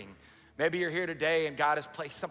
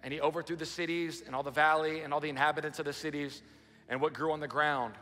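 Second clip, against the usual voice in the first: dramatic scripture reading. Acted. Reads Genesis aloud.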